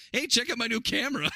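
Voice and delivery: high, loud show-off brag; hammed-up eager show-off; mock show-off voice. Mocking Horse Girl's camera line.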